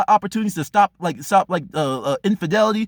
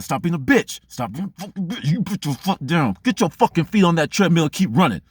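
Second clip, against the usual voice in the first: self-scolding. Retold or imitated. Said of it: "I said".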